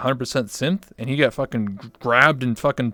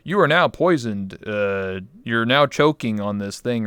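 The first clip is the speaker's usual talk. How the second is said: DM voice; slower than usual. Retold or imitated. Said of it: "in his D M voice".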